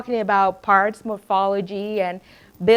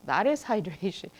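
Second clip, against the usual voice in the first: whisper; 3 semitones lower, 8 dB quieter than usual. Retold or imitated. Principal retelling child exchange.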